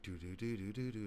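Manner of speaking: soft sung-out update sting; do-do-do the show's theme, lightly; imitated TV jingle. Explaining the show's updates, softly mimicked jingle.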